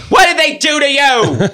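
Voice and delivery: very high, slow dramatic question; mock dramatic concern. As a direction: ask it with hammed-up alarm. Remini mimicked.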